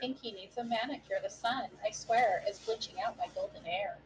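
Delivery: a hint of valley girl. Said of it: "That Shaggy is just a Crying Valley Girl".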